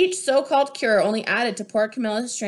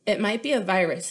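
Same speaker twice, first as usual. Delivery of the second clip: authoritative; 2 semitones lower than usual. Acted. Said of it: "he announced with authority".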